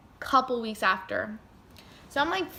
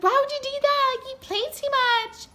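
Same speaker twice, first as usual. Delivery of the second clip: high, louder mock sister voice; scolding sister; 6 dB louder than usual. Sister scolds the speaker for the stunt, high mocking voice. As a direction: play the sister telling her off.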